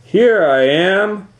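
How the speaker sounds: slow, high sing-song reply; calm little-sister answer; Louise answering. Acted. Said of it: "said a voice".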